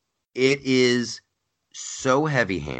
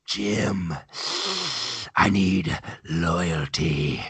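mock Trump; 2 semitones lower, much slower than usual. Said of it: "his impression of Donald Trump".

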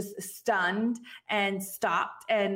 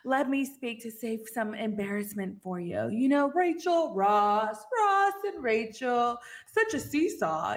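cocky Ross. Retold or imitated. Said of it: "He's trying to be all, like, cocky".

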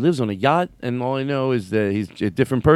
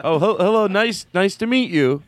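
awkward greeting; 6 semitones higher than usual. Pretend. Playing awkward newcomer.

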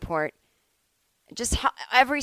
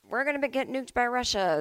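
sarcastic; 5 semitones higher than usual. Retold or imitated. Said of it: "that sarcastic voice".

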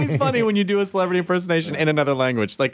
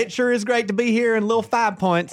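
higher, joking New York delivery; mock New York accent; 4 semitones higher than usual. Comic joining the bit, mock New York accent. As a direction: play along in hammed-up New York. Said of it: "That's my New York accent".

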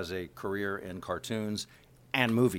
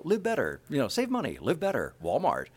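higher, friendly commercial read; straight announcer; 5 semitones higher than usual. Shown as a demonstration. Voice actor quotes his Walmart Christmas ad, smooth announcer. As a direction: deliver the slogan like a store ad. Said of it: "I do commercials as a straight announcer".

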